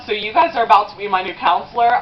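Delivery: normal talking voice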